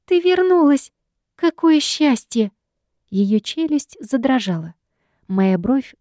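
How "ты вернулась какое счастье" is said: much higher, louder cry of relief, slowing on the second phrase; overjoyed. A narrator's reading. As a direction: burst out with joy, then stretch the happiness. Sister overjoyed at her return.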